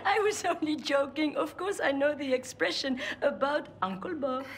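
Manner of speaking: amused, light laughter in the voice; playful, laughing reassurance. Acted. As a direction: tease with a chuckle. Laughs off her joke.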